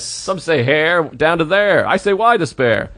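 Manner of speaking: Carlin poem recital. Retold or imitated. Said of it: "I used to do Carlin".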